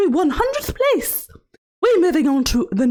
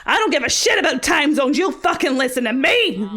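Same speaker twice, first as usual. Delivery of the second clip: sudden angry outburst; 4 semitones lower than usual. Acted. Host snapping at chat over time zones, mock angry shout. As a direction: snap at chat like a cranky old dame.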